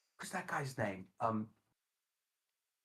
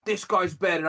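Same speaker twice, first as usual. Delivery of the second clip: loud, raised mock declaration; hammed-up fervent outburst; mock diehard fan; 6 semitones higher, 8 dB louder than usual. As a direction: declare it like a blindly loyal supporter. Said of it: "stupid fucking take to be like".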